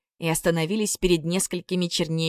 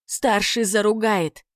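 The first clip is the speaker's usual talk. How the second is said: higher, slow little troll squeak; писклявым голосом; squeaky; 4 semitones higher, 3 dB louder, slower than usual. Acted. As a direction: pipe it up like a small worried troll. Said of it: "пропищал маленький".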